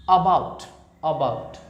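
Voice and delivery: about with a light, short a; barely touch the a in about; light schwa. Shown as a demonstration. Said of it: "हल्का अ बोलना है ना".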